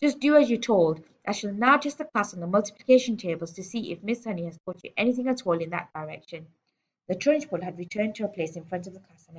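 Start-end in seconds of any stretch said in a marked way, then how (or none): 0.0-6.5 domineering headmistress, commanding. Acted.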